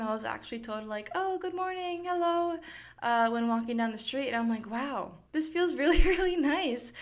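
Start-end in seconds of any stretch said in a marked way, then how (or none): 1.1-2.6 high-pitched, sing-out hello; friendly greeting. Retold or imitated. Locals greeting someone walking down the street, friendly greeting. 4.7-6.9 higher, louder delight with a laugh; delighted amazement. Retold or imitated. Walker finally greeted by locals, delighted amazement.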